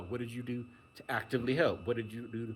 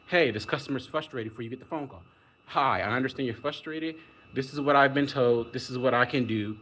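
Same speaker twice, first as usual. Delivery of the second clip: helpful agent demo; 3 semitones higher, 5 dB louder than usual. Shown as a demonstration. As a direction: show the caring way to greet an angry caller. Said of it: "I would phrase just like that".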